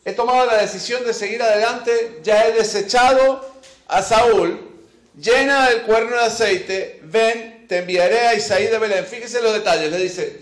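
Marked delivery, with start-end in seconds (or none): 0.1-9.1 lightly voiced divine command, raised and louder; God commanding Samuel. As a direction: give firm orders as God to a prophet.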